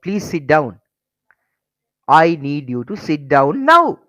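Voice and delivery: firm, slow and forceful on the second line; stern command demo; firm command with emotion. Shown as a demonstration. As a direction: order them to sit, leaning on now. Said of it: "You're showing your emotion now".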